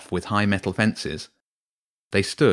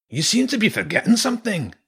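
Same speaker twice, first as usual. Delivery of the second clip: very high, pointed rat mercenary voice; Zen; 14 semitones higher than usual. A narrator's reading. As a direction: challenge him as a bossy rat. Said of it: "Zen said".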